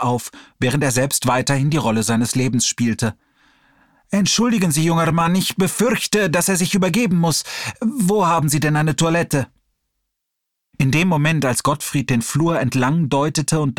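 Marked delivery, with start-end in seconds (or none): 4.1-9.5 put-on urgent old man. Old man asks for toilet.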